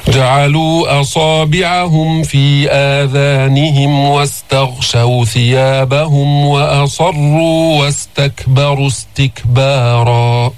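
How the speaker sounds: slow, drawn-out tajweed recitation; Quran recitation. Shown as a demonstration. Teacher recites the verse for his students, slow melodic tajweed. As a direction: chant each verse slowly and melodiously.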